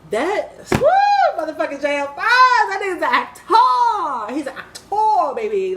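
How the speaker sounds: loud, high, thrilled yelling; hyped shout. Real, not acted. Excited praise of actor.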